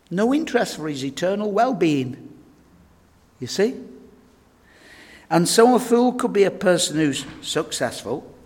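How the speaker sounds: normal talking voice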